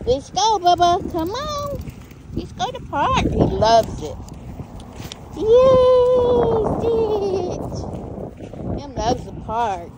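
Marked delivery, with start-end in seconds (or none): 0.1-3.2 high pet talk. Real, not acted. Calling the dog excitedly. 5.4-7.8 high happy pet cheer; excited cheer. Real, not acted. Cheering the dog.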